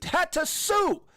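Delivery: "Had to sue" pitched high and drawn out; slow, high, insistent "Had to sue"; exasperated emphasis. Real, not acted. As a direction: stretch "sue" high in disbelief.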